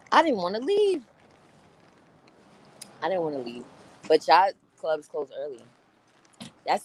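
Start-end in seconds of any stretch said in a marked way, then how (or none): 0.1-1.0 high, loud gushing emphasis; wildly enthusiastic, pitched way up; excited exclamation. Real, not acted. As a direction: cry it out high and loud, thrilled. Hyping how good club was.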